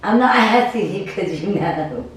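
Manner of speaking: laughing through the words. Real, not acted. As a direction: giggle it out. Laughing aside.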